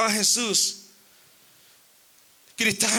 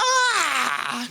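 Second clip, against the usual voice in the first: hammed-up scream at an empty fridge; mock scream; 6 semitones higher than usual. Preacher mocking men finding the fridge empty, comic scream. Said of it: "Algunos gritan como cuando abren".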